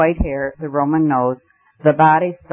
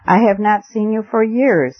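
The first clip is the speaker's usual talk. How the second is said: higher-pitched, exclaiming greeting; eager cry; 6 semitones higher than usual. A narrator's reading. Host shaking Basil's hand again and again, eager raised-pitch cry. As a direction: exclaim it to a long-unseen friend. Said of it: "he cried".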